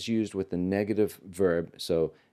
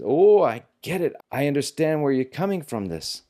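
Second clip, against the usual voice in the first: mock excited, louder and higher; light up as it clicks; excited realization; 6 semitones higher, 5 dB louder than usual. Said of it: "his friend is excited and says".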